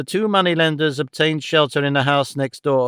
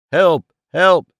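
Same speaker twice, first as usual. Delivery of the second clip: loud cry for help; calling for help; 3 semitones higher, 6 dB louder than usual. A narrator's reading. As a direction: call out to the street. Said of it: "cried Ralph".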